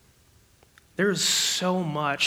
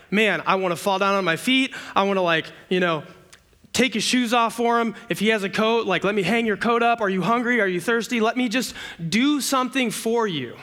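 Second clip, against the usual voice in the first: eager host; 4 semitones higher, faster than usual. Retold or imitated. Imagined eager host greeting God.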